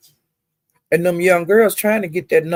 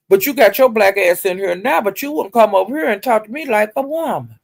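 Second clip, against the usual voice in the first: retold heated scolding; 3 semitones higher than usual. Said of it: "she said".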